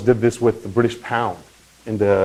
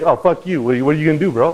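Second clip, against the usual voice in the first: a higher, mocking bro voice flipping them off; cocky brush-off; 4 semitones higher, faster than usual. Crypto founder taunting the US government, mock cocky. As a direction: sneer it like a reckless founder. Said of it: "he was like".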